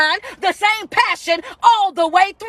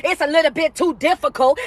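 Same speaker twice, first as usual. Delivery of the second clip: mock complaining. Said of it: "start complaining about".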